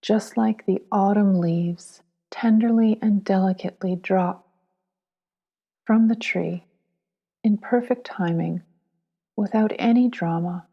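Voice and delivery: soothing, unhurried guidance in short, spaced phrases; guided meditation. Acted. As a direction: ease the listener into letting go, lingering on each phrase.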